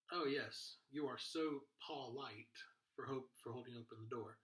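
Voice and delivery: mock compliment with polite said as PAW-lite. Shown as a demonstration. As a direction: overdo an aw vowel in polite. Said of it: "That's not how it works".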